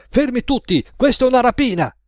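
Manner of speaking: robbery shout, high and loud; fierce high yell of a would-be robber. A narrator's reading. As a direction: burst in yelling at the diners.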